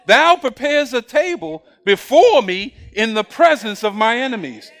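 slow, deliberate, weighty reading; slow emphatic take. Shown as a demonstration. Preacher repeating the psalm slowly so the church listens. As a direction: lay each word down slowly. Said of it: "Now listen".

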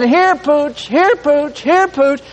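high sing-out dog call; high-pitched "here, boy" style call. Pretend.

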